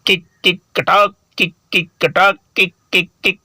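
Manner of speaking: a hint of a squawking hen; mild mock hen clucking; chicken squawking. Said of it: "ऐसी आवाजें निकालने लगी".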